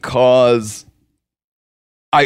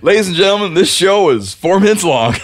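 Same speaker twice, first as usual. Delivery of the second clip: high, showy host announcement; announcer voice; 6 semitones higher than usual. Retold or imitated. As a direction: announce it like a showman. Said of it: "been like".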